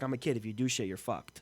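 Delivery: mock child's taunt. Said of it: "he's like".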